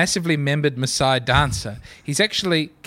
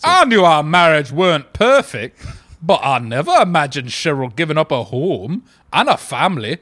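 voice of the man; 2 semitones lower, 5 dB louder than usual. Pretend. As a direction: read it as the heartbroken husband, hammed up. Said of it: "do the voice of the man".

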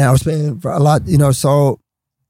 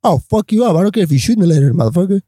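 threatening; 4 semitones higher than usual. Retold or imitated. Threatening the gangster bosses.

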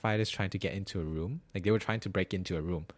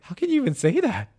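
much higher and louder retort; indignant disbelief; 8 dB louder than usual. Retold or imitated. Retelling a reply to the neighbour, high indignant outburst. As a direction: fire back in shocked disbelief.

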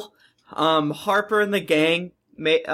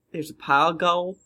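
King of the Hill Southern voice; Southern accent; 2 semitones lower than usual. Acted. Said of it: "Are you trying to do Southern accent?".

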